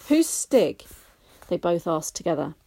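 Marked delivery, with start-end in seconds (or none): 0.1-0.8 higher, louder, puzzled; curious question. A narrator's reading. Gran and Lou asking about Stig, higher curious voice. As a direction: ask who he is. Both ask.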